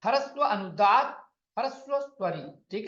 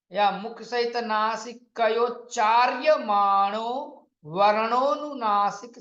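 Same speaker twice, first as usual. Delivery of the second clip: slow, deliberate reading of a grammar commentary; measured classroom recitation of the rule; Sanskrit recitation; 3 dB louder, slower than usual. Acted. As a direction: recite the Sanskrit text slowly, word by word. Reads Sanskrit commentary aloud.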